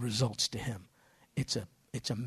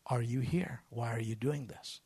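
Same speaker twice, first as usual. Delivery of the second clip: slow, half-whispered question; hushed question; slower than usual. Retold or imitated. Translator passing on the owner's question, a slow hushed ask. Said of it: "He's asking you".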